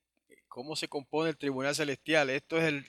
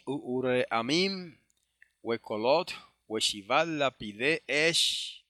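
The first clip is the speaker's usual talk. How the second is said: slow, measured Hebrew recitation; Hebrew scripture reading; much slower than usual. Acted. Teacher reading verse five to the brethren, slow Hebrew recitation. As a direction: read the Hebrew out slowly, phrase by phrase.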